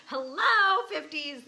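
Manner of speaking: loud, high hello to her fifties; mock greeting. Real, not acted. Laughing at turning fifty-four, loud and high.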